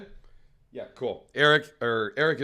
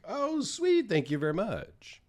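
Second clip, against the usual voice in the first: pleased surprise; 8 semitones higher, 4 dB quieter than usual. Retold or imitated. Surprised by a free knife gift.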